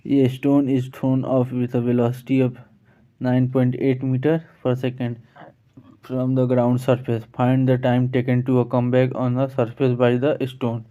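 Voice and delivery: very slow, word by word, reading the definition aloud; slow dictation reading. Shown as a demonstration. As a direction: read it out slowly so students can follow. Reads question aloud. (बहुत धीरे-धीरे पढ़कर सुनाना)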